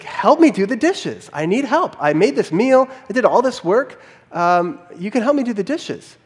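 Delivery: half-acted insistent plea. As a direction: push harder for help, mock wife. Wife asks again, more firmly.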